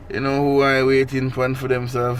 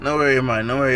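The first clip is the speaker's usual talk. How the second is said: put-on Jamaican accent; faster than usual. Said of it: "in a Jamaican accent".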